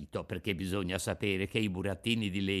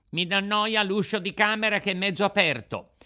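put-on high-pitched boyish complaint; fussy puppet child; 9 semitones higher, 5 dB louder than usual. Puppet making excuses to the Fairy, whiny.

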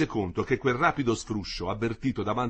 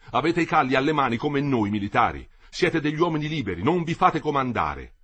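raised, higher rallying cry; shouted appeal; 4 semitones higher, 5 dB louder than usual. A narrator's reading. A worker appeals to soldiers not to obey, shouted appeal. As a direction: urge them loudly to stand free. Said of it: "gridò".

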